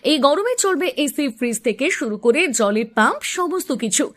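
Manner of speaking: upbeat pushy advert read; hard sell ad. Acted. Solar system radio-style ad read. (জোরালো বিজ্ঞাপনী পাঠ)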